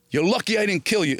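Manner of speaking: high-pitched replay of a threat; ad-libbed audition line. Retold or imitated. Retells his ad-libbed audition line.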